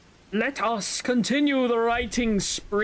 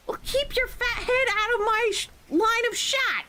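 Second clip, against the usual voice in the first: mock shouted gamer taunt. Joking shout while shooting teammate.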